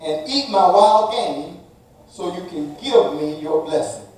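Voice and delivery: Esau asking. Acted. Esau urging his blind father to eat, lightly voiced eager son. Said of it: "Then he said".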